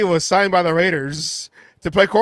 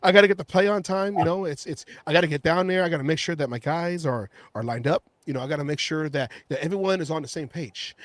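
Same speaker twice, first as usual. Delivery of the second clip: imitating Obama cadence; 2 semitones lower, 6 dB quieter, faster than usual. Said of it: "that Obama cadence".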